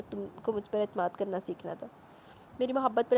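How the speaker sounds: novel read aloud with the characters lightly voiced; story narration. Narrator reading the final chapter of a romance novel to listeners, audiobook style.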